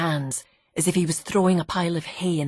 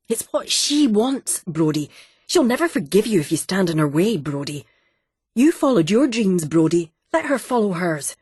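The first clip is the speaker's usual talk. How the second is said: wife mimicking; 3 semitones higher, 5 dB louder than usual. Wife quoting Brodie's urging back.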